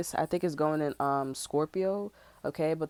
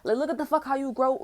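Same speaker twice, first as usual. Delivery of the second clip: incredulous retort; 7 semitones higher, 4 dB louder than usual. Retold or imitated. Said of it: "I'm like".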